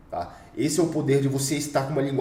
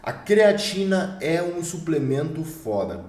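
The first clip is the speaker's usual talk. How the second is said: higher, slow and assured; confident delivery; 4 semitones higher, slower than usual. Shown as a demonstration. Coach showing students how a confident speaker sounds, firm and assured. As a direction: state it like a sure expert. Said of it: "Olha como muda tudo".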